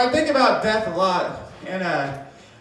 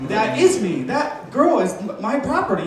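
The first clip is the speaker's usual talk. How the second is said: mock proud boyfriend; slower than usual. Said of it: "how he thought I was gonna respond".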